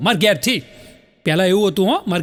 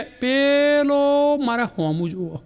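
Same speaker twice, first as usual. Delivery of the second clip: mock indignant wife; 3 semitones higher, slower than usual. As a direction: play a wife complaining of a starer. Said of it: "પતિને શું કહે".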